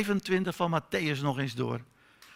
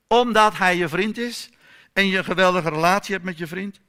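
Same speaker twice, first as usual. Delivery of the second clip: fervent appeal; 5 semitones higher, 9 dB louder than usual. Real, not acted. Preacher's appeal to listeners.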